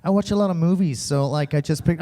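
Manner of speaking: imitating a put-on American accent; casual mock-American girl voice; fake American accent. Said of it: "Why do you sound like that".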